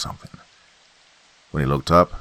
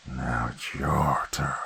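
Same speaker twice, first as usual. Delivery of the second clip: slow, much softer whispered threat; menacing whisper; 3 semitones lower, 6 dB quieter, slower than usual. Acted. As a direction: breathe the threat into his face. Monster threatening Johnny.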